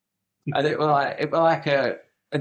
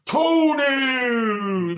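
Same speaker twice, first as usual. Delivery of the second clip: long, high, loud cry sliding down; drawn-out mimicked yell; imitated shout; 11 semitones higher, 6 dB louder than usual. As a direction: holler the name and stretch it out. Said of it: "Like that".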